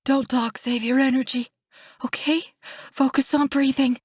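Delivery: worried, tender coaxing; anxious soothing. A narrator's reading. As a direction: hush him and keep him with you. Hushing her dying brother.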